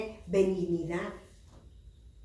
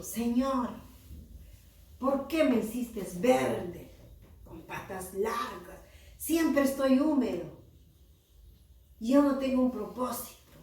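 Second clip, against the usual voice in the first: higher, mildly plaintive complaint; sad frog praying; 4 semitones higher, 3 dB louder than usual. Acted. Sad little frog asks God why it was made so, plaintive. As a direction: plead as an unhappy little frog. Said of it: "la ranita se quedó triste".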